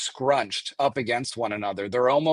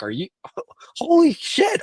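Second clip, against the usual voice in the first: higher, laughing mock yell; retold yelling; 12 semitones higher than usual. Telling hosts how she yelled in shock, higher laughing yell. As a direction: recreate your own shocked shout with a laugh. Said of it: "I think I'm yelling".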